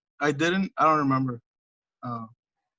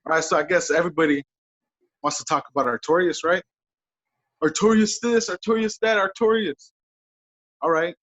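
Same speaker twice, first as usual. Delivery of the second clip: trash-talking wrestler calling out a rival; wrestling promo. Pretend. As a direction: cut a heel promo, taunting. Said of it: "You wanna cut a promo right now?".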